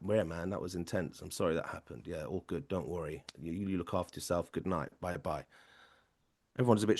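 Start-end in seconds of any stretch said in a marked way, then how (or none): 0.1-5.4 much softer, low calming voice; gentle reassurance. Retold or imitated. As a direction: soothe the shaken young man quietly. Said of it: "I'm like".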